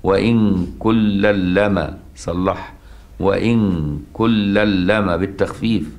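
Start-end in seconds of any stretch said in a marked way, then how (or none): 0.0-2.0 slow chanted recitation of the verse; Quran recitation. Shown as a demonstration. Teacher reciting the light reading, slow and chanted. 3.2-5.2 slow chanted recitation of the verse; Quran recitation. Shown as a demonstration. Teacher reciting the light reading, slow and chanted.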